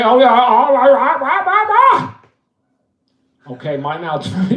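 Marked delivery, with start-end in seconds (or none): 0.0-2.2 laughter breaking through, climbing high; real laughing fit breaking the character; cracking up. Real, not acted. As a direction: lose it and laugh out. Breaks into laughter mid-list.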